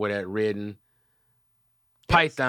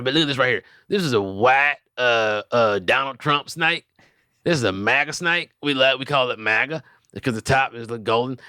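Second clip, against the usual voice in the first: raised, hammed-up pitchman showing off his snakes; dubbed video voice. Dubbing a video for friends, proud snake-seller voice. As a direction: voice over a stranger's video like a proud salesman. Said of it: "Dubbing videos".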